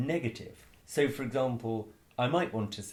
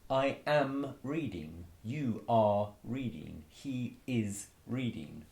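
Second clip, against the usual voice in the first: slow, deliberate example phrases; slow clear demo; slower than usual. Shown as a demonstration. Teacher modelling slowly for students. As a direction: model each form slowly for learners. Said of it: "So you can hear there we've got two verbs".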